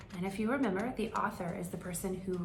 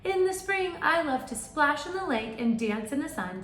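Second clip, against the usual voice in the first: bear voice; 8 semitones higher, 6 dB louder than usual. Acted.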